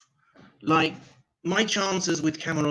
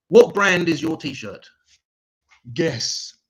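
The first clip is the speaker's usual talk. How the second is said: slow, louder questioning voice; mock posh English joke; 4 semitones higher, 6 dB louder, slower than usual. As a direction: set up a dry English joke, slowly. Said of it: "my English joke".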